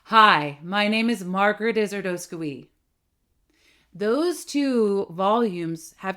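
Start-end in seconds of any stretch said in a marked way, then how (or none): 0.0-2.7 open, enveloping voice that starts louder; welcoming, room-filling introduction; embracing volume. Shown as a demonstration. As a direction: wrap the listener in the sound. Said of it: "this embracing volume".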